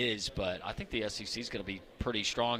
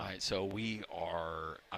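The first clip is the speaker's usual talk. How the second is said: hushed golf-announcer voice; whispering; 3 semitones lower, 5 dB quieter than usual. Pretend. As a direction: talk softly like someone's about to putt. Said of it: "Why are we whispering now?".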